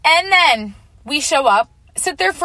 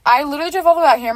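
fast, higher-pitched retold complaint; mad; 4 semitones higher, 3 dB louder, much faster than usual. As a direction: rattle it off in mock outrage. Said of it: "I'm really mad".

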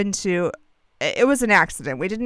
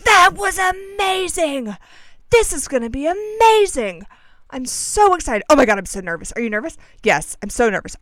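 put-on gushing childlike excitement; 3 semitones higher, 4 dB louder than usual. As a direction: imitate wide-eyed friends squealing over every thrill. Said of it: "the childlike wonder with which our friends embraced".

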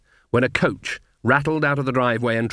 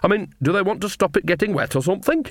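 higher-pitched folksy witch, idly baffled; cheerful old witch, puzzled; 8 semitones higher than usual. Acted. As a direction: wonder aloud as a tipsy, cheery witch.

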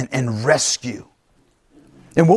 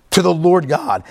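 ordinary talk

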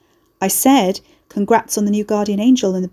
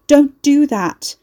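slow, higher and louder; desperate plea; 6 semitones higher, 6 dB louder, much slower than usual. A narrator's reading. Carrie pleading with Fairwood to stop, slow and loud. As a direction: drag it out, begging.

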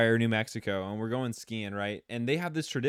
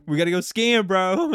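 louder, higher mock-eager call; excited urging; 6 semitones higher, 8 dB louder than usual. Urging a friend to go skiing, loud and eager. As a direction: push it out loud like an eager bro.

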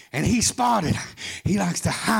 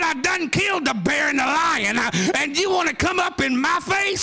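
mocking shouted taunt in a higher voice; preacher voicing David's scornful dare; defiant David; 5 semitones higher than usual. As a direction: throw the challenge at the giant. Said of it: "he laughed at him and said".

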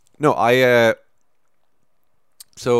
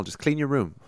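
imitating Peterson; 5 semitones higher, 4 dB quieter than usual. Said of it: "he's always like".

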